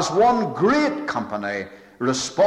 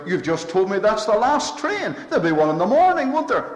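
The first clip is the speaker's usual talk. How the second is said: questioning the porter; 8 semitones higher, 3 dB louder, faster than usual. Retold or imitated. Preacher questions railway porter.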